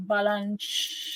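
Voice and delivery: thick Northern Jersey accent on Balunch. Shown as a demonstration. Playing soccer with her son, answering in a Northern Jersey accent. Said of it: "This is actually a Northern Jersey accent".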